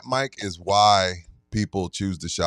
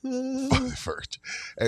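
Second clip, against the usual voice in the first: mock high voice; 7 dB quieter, much slower than usual. Cohost echoes the high voice.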